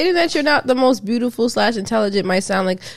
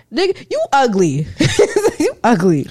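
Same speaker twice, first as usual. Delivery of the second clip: laughing while calling him ugly; laughing insult; 2 semitones higher than usual. Real, not acted. Friend mocking the caption writer, laughing. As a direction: toss the insult through giggles.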